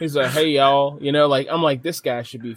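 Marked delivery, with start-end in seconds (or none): 0.3-1.0 louder mock country greeting; country gamer. Imitating his gaming buddy from the country, mock hearty greeting. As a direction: imitate a country guy hailing everyone. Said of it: "somewhere in the country".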